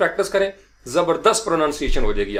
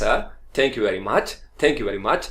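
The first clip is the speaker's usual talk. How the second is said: slow careful demo; 4 semitones lower, much slower than usual. Shown as a demonstration. Teacher slowly modelling thanks for students. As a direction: thank you very much said slowly with a rising end.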